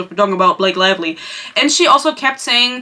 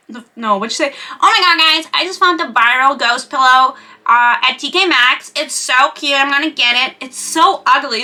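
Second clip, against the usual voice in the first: put-on gushing TikTok haul girl; 4 semitones higher than usual. Vlogger mimics a TikTok shopper, gushing and high. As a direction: gush over the ugly find like an influencer. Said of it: "she was like".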